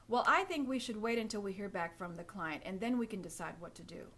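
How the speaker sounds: firm statement with a falling end; plain assured boardroom voice; confident, matter of fact. Shown as a demonstration. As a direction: say it as settled fact. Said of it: "That sounds more matter of fact".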